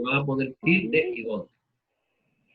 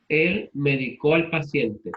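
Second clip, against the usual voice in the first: slow example, "medicó" as me-di-CÓ; slow down, stressing CÓ in "medicó"; stress on the last syllable; slower than usual. Shown as a demonstration. Teacher using the verb in a sentence, slowly, "medicó" stressed on CÓ. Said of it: "la voy a pronunciar de la siguiente manera".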